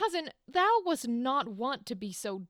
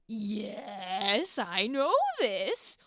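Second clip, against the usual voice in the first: exasperated Buckingham; 5 semitones higher, 5 dB louder than usual. Retold or imitated. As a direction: spell it out to a fool, then run out of patience.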